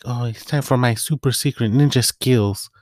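put-on little girl voice. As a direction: play the tiny girl gearing up for a sneaky mission.

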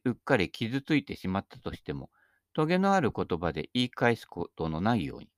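measured, solemn recitation of a maxim; formal reading. Acted. Reads a quoted maxim.

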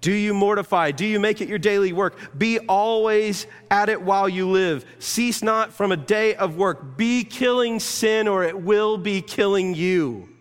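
John Owen's voice quoted loudly; stern Puritan warning. Retold or imitated. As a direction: hammer home the charge to kill sin. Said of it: "He said it this way".

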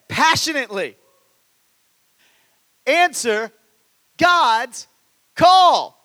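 preaching crescendo on answer God's call; rising preached cry. Real, not acted. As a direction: build from firm to a loud, high call. Preaching climax, building to a cry.

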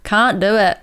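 Australian can't do it; the improved Australian take; Australian accent. Shown as a demonstration. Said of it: "Yeah, that sounds better".

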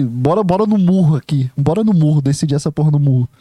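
zoeira animada entre amigos; brincadeira íntima. Shown as a demonstration. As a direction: chamar o parceiro pra briga de brincadeira. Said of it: "na minha entonação, na minha forma de falar". (tom de brincadeira, com intimidade)

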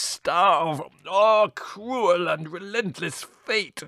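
slow, rising melodramatic wail; tragic lament. A narrator's reading. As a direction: cry out against fate. Costi laments his fate.

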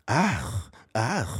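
imitated short breathy "ah"; mock slimmed-down wheeze, short puffs. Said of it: "Just be a higher pitch".

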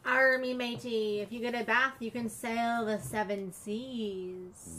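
pirate voice. Pretend. Pirate talk to child about bath.

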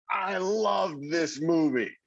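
drawn-out, high-pitched mock yell. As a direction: imitate yelling it out, slowly, without real volume. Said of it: "Stand up and yell".

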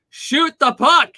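high, loud, drawn-out fan's shout; re-enacted holler from the stands, each word stretched; retold frustrated yell. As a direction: yell it at the player like a fan in the arena. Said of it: "where I literally yelled".

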